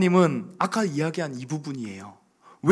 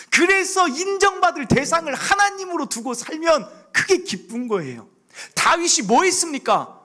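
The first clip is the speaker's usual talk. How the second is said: loud, raised preaching voice; fervent preaching; 10 semitones higher, 5 dB louder than usual. Acted. Pastor telling the congregation about his dawn prayers, preaching fervently. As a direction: preach it out with conviction.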